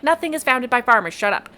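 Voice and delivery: put-on brisk, annoyed snap at the young man; rounding on him. Young woman rounds on the guy, annoyed. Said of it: "she rounds on him".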